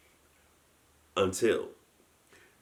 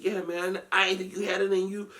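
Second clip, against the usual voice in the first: put-on old guard voice; 11 semitones higher than usual. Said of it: "He said".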